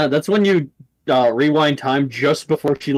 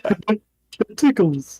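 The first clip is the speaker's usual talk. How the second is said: put-on childlike panda; 6 semitones higher than usual. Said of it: "He's like".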